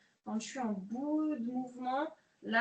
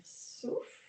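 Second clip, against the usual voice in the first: breathed-out cue; 3 semitones higher than usual. Shown as a demonstration.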